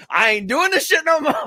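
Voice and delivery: high, laughing mock complaint. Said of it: "and I said".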